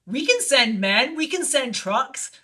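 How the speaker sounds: slow, weighty pronouncement; retold emphatic offer. Screenwriter offering help moving her few things, slow and emphatic. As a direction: lay out each offer deliberately.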